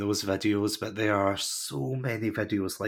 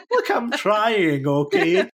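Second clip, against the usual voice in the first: high, loud, slow laughing protest; 10 semitones higher, 8 dB louder, slower than usual. Retold or imitated. Answering her partner who says she's wrong, laughing protest. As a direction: plead through laughter that you're trying.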